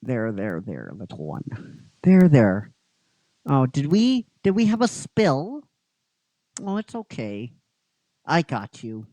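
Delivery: a hint of a gentle father comforting; lightly voiced tender dad; soothing father. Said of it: "a man going".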